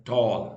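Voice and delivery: टॉल drawn out in one unbroken tone; slow, one-beat टॉल for learners; one-tone demo. Shown as a demonstration. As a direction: stretch टॉल slowly as a single syllable. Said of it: "एक ही tone में जो खत्म हो जाए".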